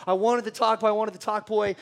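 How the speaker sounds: high-pitched whiny kid imitation; mock tantrum yell. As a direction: whine it at the parents as a bawling child. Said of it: "I'm yelling this thing out loud to my parents".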